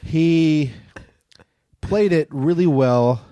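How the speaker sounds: halting, drawn-out improvised verse; limerick recital. Acted. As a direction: inch through the limerick with long pauses.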